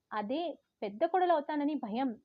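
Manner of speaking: పెద్ద punched, spitefully; stress on పెద్ద. Retold or imitated. Daughter stressing పెద్ద spitefully to her mother. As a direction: bite down on పెద్ద. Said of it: "కసిగా పెద్ద అనే పదాన్ని నొక్కి పలికాను".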